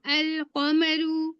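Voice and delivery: moon letter words drawn out very slowly with a clear l; dictating moon-letter examples slowly; slow modeling. Shown as a demonstration. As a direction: say each अल word slowly, lam sounded. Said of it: "लाम भी पढ़ रही हूँ".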